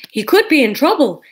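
warily. A narrator's reading. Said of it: "said Jesus warily".

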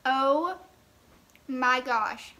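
talking while chewing candy; muffled words through food; mouth full, chewing. Real, not acted. Seen 1: Bites bar at -5, hand to mouth chewing early; later speaks clearly.

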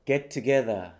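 "get together" as one unit with a single T; linked T sounds. Shown as a demonstration. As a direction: model "get together" joined, for repeating. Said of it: "これもリピートアフターミーしましょ".

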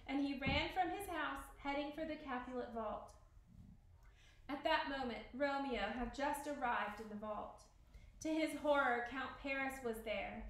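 measured read-aloud storyteller voice; story narration. A narrator's reading. Teacher reading Romeo and Juliet to the class, story narration.

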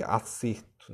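"acerto" with the noun's closed stressed e. Shown as a demonstration. Teacher showing students the noun, closed E in "acerto". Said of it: "a entonação é diferente".

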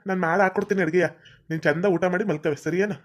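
tender, unhurried comfort; reassuring. Acted. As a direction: coax the wife gently. Husband reassures his tearful wife.

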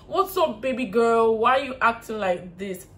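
lightly mocking imitation of a foolish boyfriend; mock a dopey boyfriend's voice; mumu voice. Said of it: "with a mumu voice".

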